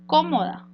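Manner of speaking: "cómoda" with its first syllable, CÓ, stressed. Shown as a demonstration. Teacher showing pupils the tonic syllable, "cómoda" stressed on CÓ. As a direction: hit the CÓ in "cómoda". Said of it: "donde co sería la sílaba tónica".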